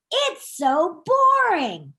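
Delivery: slow, loud, bored drawn-out complaint; bored drawl. Acted. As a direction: drag out boring like total boredom. Both ducks say it together.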